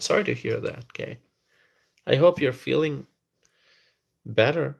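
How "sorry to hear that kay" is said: soft whisper of real sympathy. Real, not acted. Host whispers sympathy to viewer Kay. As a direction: breathe the words out, barely voiced. Sympathy for friend's broken arm.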